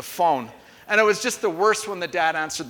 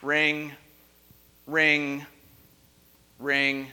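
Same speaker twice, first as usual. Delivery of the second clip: plain deadpan "Ring, ring, ring"; a boring phone ring said flat and low; flat ring imitation; 5 semitones lower, much slower than usual. Shown as a demonstration. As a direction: say each ring low and dull, spaced out. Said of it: "it's more like this".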